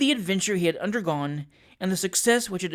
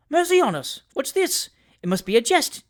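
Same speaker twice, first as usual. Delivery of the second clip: much higher, aghast cries of disbelief; shocked exclamation; 8 semitones higher, 3 dB louder than usual. A narrator's reading. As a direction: gasp it out in horror. Pickwick reads shocking letter.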